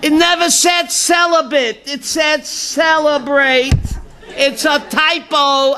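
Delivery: comic triumphant yell, drawn out; excited shout. Retold or imitated. Monk's outburst in joke.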